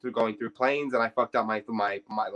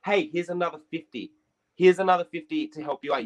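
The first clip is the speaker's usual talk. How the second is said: slightly higher voice of a helpful stranger; lightly voiced woman, pitched up; imitated woman; 5 semitones higher than usual. Second woman pressing money on him, lightly imitated. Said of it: "this white woman goes".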